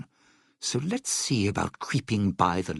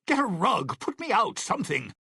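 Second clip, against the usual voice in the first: panicked cry for help; 9 semitones higher, faster than usual. Acted. Acted panic, calling for help.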